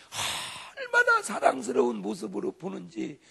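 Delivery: tearful, slow and loud; overwhelmed, slow emotional preaching. Real, not acted. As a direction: voice full of tears, pleading. Pastor moved describing Jesus' gaze.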